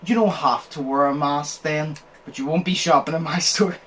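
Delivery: sarcastic. Retold or imitated. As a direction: imitate perfect sarcasm, stretching the "Oh". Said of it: "like, the sarcasm was perfect".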